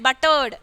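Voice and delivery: Buttered falling onto a D, not a T. Shown as a demonstration. Teacher checks students understand, Buttered with a D ending. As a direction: say Buttered as "butt-erd", voiced D at the end. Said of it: "ഡി പോലെ pronounce ചെയ്യണം".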